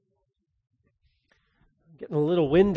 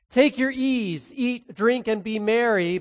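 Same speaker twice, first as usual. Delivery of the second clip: smug rich man; 3 semitones higher than usual. Acted. Rich man's self-indulgent speech.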